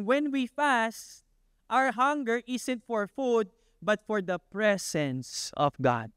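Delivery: slow, falling sermon close; slow it down and land it; slow preaching. Acted. Preacher summing up fasting for the church, slow and weighty.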